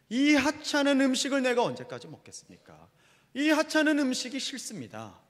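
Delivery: high-pitched, drawn-out grumbling; complaining protest. Acted. Israelites complaining to God about the worthless food, high protesting voice. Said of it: "먹을 게 없다고 불평하는 거예요".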